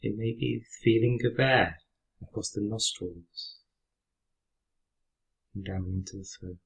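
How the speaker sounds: calm, unhurried meditation guide with long pauses; guided meditation. Real, not acted. Teacher guiding listeners through a breathing exercise, calm meditation voice. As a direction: lead them gently through the breath, leaving space after each phrase.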